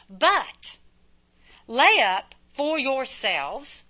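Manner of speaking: slow, measured scripture reading, drawn-out "yourselves". Shown as a demonstration. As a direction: read "lay up for yourselves" slowly, word by word. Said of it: "there's me again".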